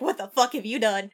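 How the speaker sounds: laughing horrified quote; cracking up mid quote. Retold or imitated. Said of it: "Drakith is like".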